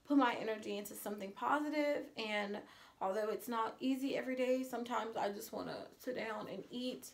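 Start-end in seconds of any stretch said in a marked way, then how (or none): 4.6-7.1 choking up. Real, not acted. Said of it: "I'm sorry".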